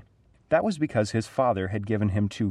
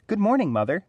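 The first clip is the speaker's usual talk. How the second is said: excited; 11 semitones higher, 3 dB louder than usual. Acted. Boy greeting eagerly.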